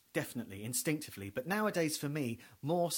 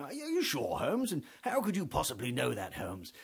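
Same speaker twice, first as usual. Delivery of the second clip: Watson. Retold or imitated. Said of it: "buffoon who was going".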